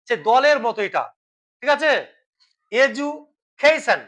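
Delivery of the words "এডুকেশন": এডুকেশন slowly as "e-ju... kay-shun", broken by a pause; drawn-out, counted-out এডুকেশন; split into syllables. Shown as a demonstration. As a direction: break এডুকেশন apart with the modern "ju". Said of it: "তাহলে কবার হচ্ছে এটা?".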